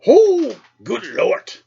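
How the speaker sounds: high, loud shocked cry; startled exclamation. Retold or imitated. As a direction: jump back in alarm. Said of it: "And Grandpa goes".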